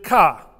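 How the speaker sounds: ka said short and firm as the female ending; female Thai ending. Shown as a demonstration. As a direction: say ka like a Thai woman ending a phrase. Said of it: "you end the phrase with".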